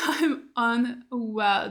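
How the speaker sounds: slow, laughing through the words. Real, not acted. A fan repeating her line to the camera, laughing. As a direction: let the laugh carry a drawn-out repeat.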